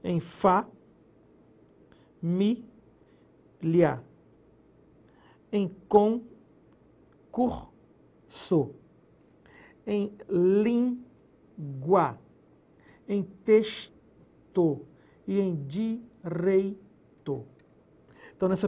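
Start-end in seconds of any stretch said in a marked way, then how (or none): 0.0-8.8 sílabas "fá", "mi", "liá", "com", "cur", "so" ditas uma a uma, com pausas; separating syllables. Shown as a demonstration. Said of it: "conforme nós vamos observar". 9.9-17.5 very slow, every syllable drawn out. Shown as a demonstration. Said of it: "conforme nós vamos observar".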